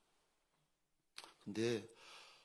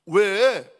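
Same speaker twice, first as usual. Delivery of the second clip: loud, raised one-word question; father answering; 4 semitones higher, 10 dB louder than usual. Acted. Abraham replying to his son's call, loudly questioning. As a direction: fire the question back high and loud.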